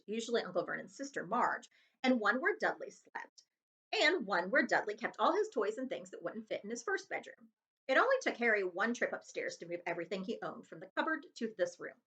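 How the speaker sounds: ordinary delivery, nothing marked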